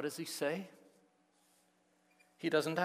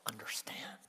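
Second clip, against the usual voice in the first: exasperated; 4 semitones lower, 9 dB quieter than usual. Acted. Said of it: "It's more like".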